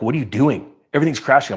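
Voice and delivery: mock panic of coworkers watching the crash; panicked colleagues.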